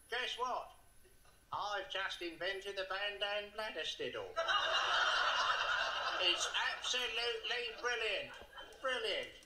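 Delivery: giddy and gleeful, laughing through it; proudly bursting with a new invention; excited caveman. Acted. Drodbar boasting about his invention.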